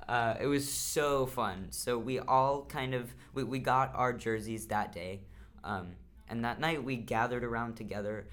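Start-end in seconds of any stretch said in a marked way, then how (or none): 0.0-5.2 lost voice, a bit hoarse. Real, not acted. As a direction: talk through a worn-out, hoarse voice. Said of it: "which is why I have lost my voice".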